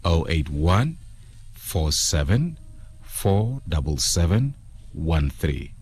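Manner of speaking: phone number read out in separate groups; slow repeat. Shown as a demonstration. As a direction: repeat the number slowly, pausing between groups. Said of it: "I'll repeat that again slowly".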